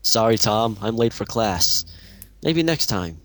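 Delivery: slow flat monotone reply; deadpan monotone line. Acted. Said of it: "in that kind of monotone voice".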